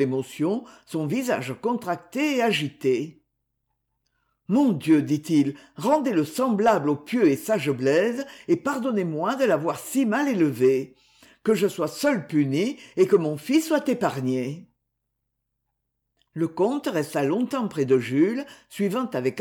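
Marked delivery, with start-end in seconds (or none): 4.5-14.7 prayer. Acted. Count prays over sick son.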